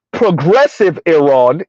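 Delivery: slow, set PROGRESSIVE off as a so-called label; audible air quotes. Real, not acted. Explaining Iran's history to listeners, progressive in air quotes. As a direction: give "progressive" drawn-out sceptical quote marks. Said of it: "quote unquote".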